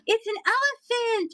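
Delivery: high gasping realization; gasp, then blurt out the discovery; surprised gasp. Real, not acted.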